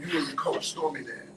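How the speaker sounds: ordinary delivery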